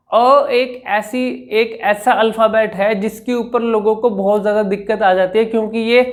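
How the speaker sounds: usual speaking voice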